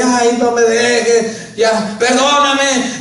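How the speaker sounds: slow, drawn-out imitation of a begging, crying husband; mock whimpering plea. Pastor imitating the abusive husband begging forgiveness, mock whimpering. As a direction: stretch each word like a mild mock sob. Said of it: "se pone a chille y chille, llore y llore".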